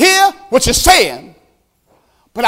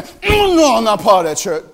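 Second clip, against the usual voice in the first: dismissive denial. Retold or imitated. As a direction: wave it away fast. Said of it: "He's saying".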